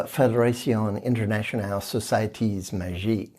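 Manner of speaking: French names said in a light mock French accent; a playful hint of a French accent. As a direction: roll it out like a Frenchman, half in jest. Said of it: "I like to do it in a French accent".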